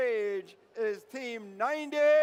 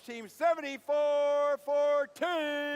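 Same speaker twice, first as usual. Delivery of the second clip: announcer call; 3 semitones higher, 4 dB louder, slower than usual. Real, not acted. Announcer calling team number.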